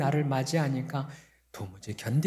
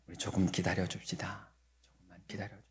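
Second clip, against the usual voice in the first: much softer and lower, coaxing; soft gentle coaxing to wait; gentle hushed plea; 7 semitones lower, 11 dB quieter, faster than usual. Retold or imitated. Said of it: "그렇게 얘기를 했어요". (아주 조용하고 낮게 달래듯)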